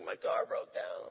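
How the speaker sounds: slow, voiceless mock whimper; half-voiced retold weeping; imitating crying. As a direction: act a tearful stranded driver, slowly. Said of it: "She's just crying".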